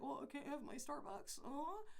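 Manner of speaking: lightly whined pampered-customer voice; mock whining. Speaker mocks people missing their coffee, mock whining. Mimics spoiled person missing Starbucks.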